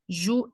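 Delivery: "Juízo" with a long, stressed I split from the U; hiato separado. Shown as a demonstration. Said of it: "separei as vogais U e I". ("Juízo" com U e I separados, I bem alongado)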